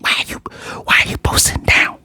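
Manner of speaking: hushed, urgent stage whisper; all breath, no voice; whisper talk. Retold or imitated. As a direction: imitate someone whispering on a stakeout. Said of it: "I love the whisper talk".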